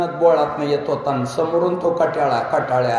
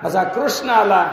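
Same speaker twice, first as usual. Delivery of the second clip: building excitement; 4 semitones higher than usual. Retold or imitated. Old man excitedly tells the miracle.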